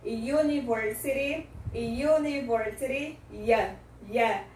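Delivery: UNIVERSITY begun with a clear 'yoo'; teacher showing the Y glide in UNIVERSITY; consonant Y sound. Shown as a demonstration. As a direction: model UNIVERSITY, then isolate Y as 'yuh'. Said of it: "o som do Y".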